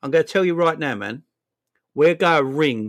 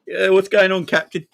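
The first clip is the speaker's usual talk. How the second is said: bright mock-eager greeting, a bit higher; eager player voice; 6 semitones higher, 3 dB louder than usual. Player answering his captain's call, mock eager. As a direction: play the keen player picking up.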